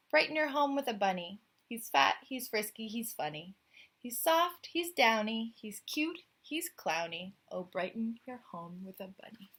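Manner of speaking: lilting rhyme read aloud; poem reading. A narrator's reading. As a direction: bounce through the rhyming verse. Reads the closing poem.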